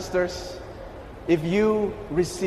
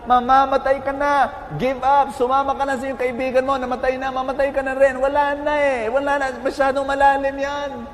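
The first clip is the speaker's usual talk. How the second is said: higher, insistent mock shouting; retold shouting; 4 semitones higher than usual. Frogs above telling the last frog to give up, retold shouting. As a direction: urge someone to quit, imitating a raised crowd voice. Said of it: "sumisigaw kayo sa akin".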